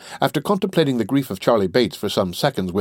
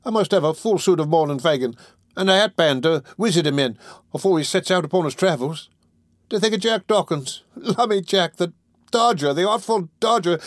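high Cockney lad in semi-comic woe; Charlie, lamenting; 7 semitones higher than usual. Acted. Charlie mourning the Dodger's petty arrest, lamenting. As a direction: bewail your friend's disgrace, running on indignantly.

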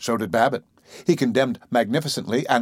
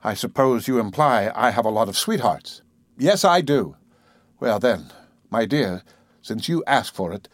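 gently. Acted. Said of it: "He said gently to Zillah".

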